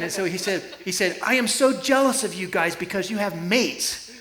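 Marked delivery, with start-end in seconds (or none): 1.2-4.1 a lightly attempted South African accent, a bit higher; imitating a South African rider's accent, not quite right. Pastor imitating the South African rider Andy in a South African accent. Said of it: "I can't say it with the right accent".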